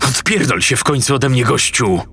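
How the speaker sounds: szybkie, gniewne warknięcie; warczący głos psa. Acted. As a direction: wywarcz to, szybko i ze złością. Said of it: "warknął". (wściekłe warczenie jak pies)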